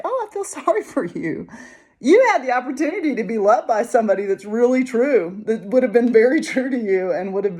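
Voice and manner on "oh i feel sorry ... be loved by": high, laughing pity; mock pity. Speaker to those who rejected her, mock pity. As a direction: pity them with a little laugh.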